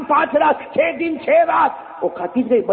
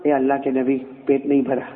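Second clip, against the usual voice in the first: lightly voiced fish, low and hushed; fish's complaint; 12 semitones lower than usual. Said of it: "आकर क्या कहा मालूम?".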